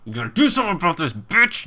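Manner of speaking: fast, pushy, ending on a sharp high bitch!; mock demanding viewer. Streamer mimics a pushy viewer, fast and demanding. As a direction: rattle off the demand like an entitled fan. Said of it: "trying to, quoting chat".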